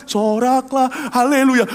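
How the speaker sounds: loud high call, soraklah stretched slowly; rally the congregation; worship leader shout. Retold or imitated. Young worship leader calling the congregation to shout, loud rallying call.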